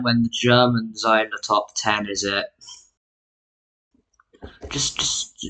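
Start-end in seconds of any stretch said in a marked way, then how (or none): 4.7-5.5 breathy hushed whisper. Real, not acted. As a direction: drop to a whisper. Sudden whisper.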